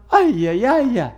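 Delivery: joking Spanish-style wail, rising high at the end; a hammy Spanish lament; mock Spanish exclamation. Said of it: "That's my Spanish".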